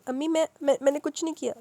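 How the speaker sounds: mildly shaken, halting denial; trembling voice. Acted. Darakhshi pleads with her mother, mildly frightened. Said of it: "کانپتی آواز میں".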